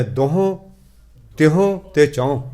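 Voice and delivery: ਦੋਹੋਂ, ਤਿਹੋਂ, ਚੌਂ each ending in a nasal; spaced-out ਦੋਹੋਂ, ਤਿਹੋਂ, ਚੌਂ with nasal endings; nasalised numerals. Shown as a demonstration. Preacher listing the three number words, each ending nasalised. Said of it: "ਟਿੱਪੀ ਨਾਲ ਲਾ ਕੇ ਪੜ੍ਹਨਾ ਹੈ".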